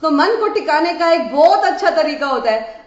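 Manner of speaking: usual speaking voice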